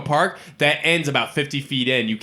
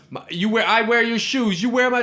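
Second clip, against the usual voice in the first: a high, whining squabble voice; high whiny bickering; 9 semitones higher than usual. Retold or imitated. Wesley Snipes bickering with Woody Harrelson in the street, high whining voice. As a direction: whine it like a jealous sibling. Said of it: "he goes".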